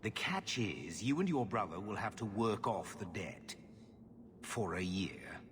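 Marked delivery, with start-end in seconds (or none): 4.4-5.4 breathy whisper, letting it drop; whispered bad news. Uncle revealing the debt term to family, sheepish whisper. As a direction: whisper the catch almost apologetically.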